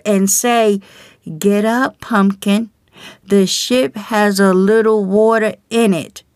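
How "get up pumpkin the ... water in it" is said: lightly sweet, coaxing tone, not a real whisper; a half-hearted sweet nudge, like waking a child; mock sweet wake-up. Preacher mocks a gentle warning, mildly sweet and coaxing. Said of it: "whisper real sweet in your ear".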